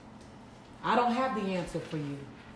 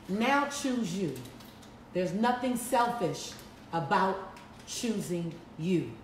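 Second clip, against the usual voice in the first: slow tender urging; 3 semitones lower, slower than usual. Real, not acted. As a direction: lay each word down gently. Tender encouragement to audience member.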